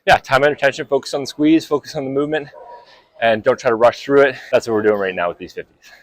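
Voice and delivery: breathing hard between phrases; winded from the lunges, short of air. Real, not acted. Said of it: "I'm out of breath".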